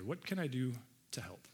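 breathy whispered question. Shown as a demonstration. Pastor whispering the key question to the church. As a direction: whisper it like a secret offer.

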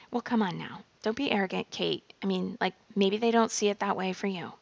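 lightly voiced, tight scolding critic; a hint of a clipped, scolding inner voice. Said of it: "my inner critic voice ... she gets very tight, very clipped".

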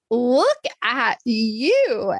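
drawn out very slowly, marvelling; admiring. Retold or imitated. Speaker greets the newly confident woman, slow and admiring. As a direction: savour each word like you're proud of her.

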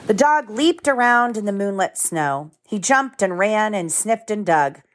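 gentle storybook read-aloud; lively picture book narration with voices; reading to children. A narrator's reading.

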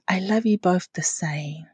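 put-on whispered softly, like a child making peace; whispered child reply. Mum imitates her daughter's whispered answer, whispering. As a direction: breathe it out in a whisper. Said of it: "she goes".

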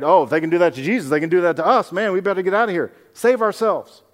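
fast, panicky whispering-to-friends worry; mock-fearful rush to flee; scared disciples. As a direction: hurry the words like frightened men planning escape. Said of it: "they're afraid".

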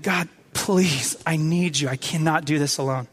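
quiet, earnest plea; pleading. Acted. Moses begging God not to leave him alone, subdued pleading. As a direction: plead softly, voice sinking toward the end. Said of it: "Moses is pleading".

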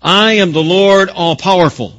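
loud, emphatic scripture declaration; God declaring. Acted. Preacher quoting God in Malachi to the congregation, loud declaration. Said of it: "Malachi three continues".

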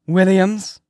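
loud, high call down the hall; hollering. A narrator's reading. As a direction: holler the name to summon him. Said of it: "she hollers down to the black boy".

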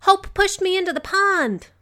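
put-on high, loud child's tattling wail; crying out. A narrator's reading. Muddy girl telling mother on another child, crying out. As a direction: complain at the top of a little girl's voice. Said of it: "the girl cried".

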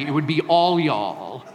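slow, drawn-out Southern "all y'all". Shown as a demonstration. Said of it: "That's how they say it down here".

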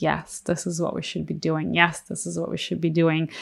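soft, hushed inner voice, still voiced; imitated inner whisper. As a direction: quietly voice your intuition's nudge. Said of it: "like, whispering to me".

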